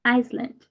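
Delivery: "Iceland" with the c sounded as s; C pronounced. Shown as a demonstration. Teacher modelling the country's name for learners, C pronounced. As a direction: clear s sound in the middle of "Iceland". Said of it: "we pronounce the letter C".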